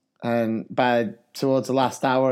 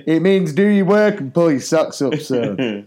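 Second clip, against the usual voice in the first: loud, high retold telling-off; mock-stern teacher, raised voice; exasperated teacher; 5 semitones higher, 6 dB louder than usual. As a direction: spell it out to the pupil, amused. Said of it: "I said".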